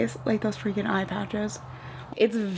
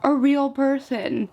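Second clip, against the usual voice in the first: high, slow mock-worried question; exaggerated impression of a fretting relative; imitated freak-out; 7 semitones higher, slower than usual. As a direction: draw it out in an alarmed high voice. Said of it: "freaking out".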